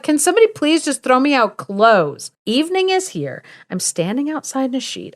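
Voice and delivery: high-pitched exasperated plea; mock freaking out. John stuck outside in a sheet, mock freaking out. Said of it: "he's, like, freaking out".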